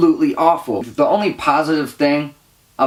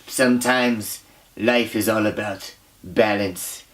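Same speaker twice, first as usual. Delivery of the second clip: lower, soft and slow mock-profound detective; 6 semitones lower, 5 dB quieter, slower than usual. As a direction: intone it like a fake sage, low and slow. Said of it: "he's just like".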